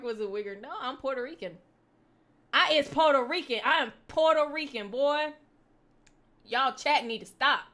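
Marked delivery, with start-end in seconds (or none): 2.5-7.6 loud, higher put-on Ebonics; mock-indignant Ebonics retort; Ebonics accent. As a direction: protest loudly in an Ebonics accent. Back into the Ebonics act at chat.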